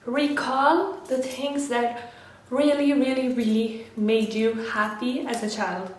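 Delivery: slightly winded; out of breath. Real, not acted. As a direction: talk while catching your breath. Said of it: "Okay, I need to catch my breath".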